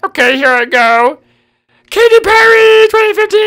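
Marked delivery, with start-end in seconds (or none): 1.9-3.4 excited. Real, not acted. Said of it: "I just got really excited".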